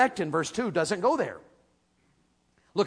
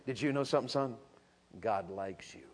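much lower and far softer, like talking to a son; tender and soft; 9 semitones lower, 11 dB quieter than usual. Shown as a demonstration. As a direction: lean in and tell your son gently. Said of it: "So I wanna say it like this".

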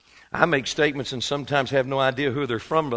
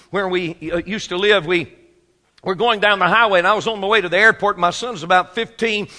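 normal talking voice

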